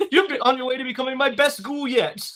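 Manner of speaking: high quote bubbling with laughter; laughing mock-proud imitation; amused retold quote. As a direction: deliver the villain's line while cracking up. Amused retelling of vampire's funny line.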